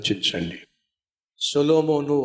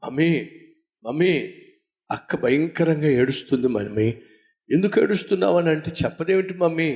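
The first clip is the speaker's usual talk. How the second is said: put-on a child's raised, worried plea, going up high at the end; anxious little boy calling; 3 semitones higher than usual. Little boy frightened by his sister's crying, calling his mummy anxiously. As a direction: call out to mummy like a small boy who doesn't understand.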